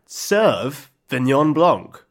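"Sauvignon" with its first syllable drawn out as "serve"; slow pun reveal, "Serve... vignon Blanc"; punning pronunciation. Shown as a demonstration. Unveiling a tennis wine pun to Josh, punning "Serve-ignon". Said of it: "are you ready for this".

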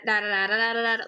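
singsong Derry accent demo; lilting imitation of a Derry accent. Shown as a demonstration. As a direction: show the Derry accent's rhythm in nonsense syllables. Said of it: "They kinda talk like this".

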